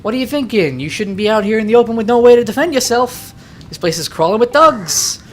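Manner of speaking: put-on scolding pal with a light New Yorker accent. Game pal warning the player about thugs, New Yorker accent. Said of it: "trying to use my best New Yorker accent".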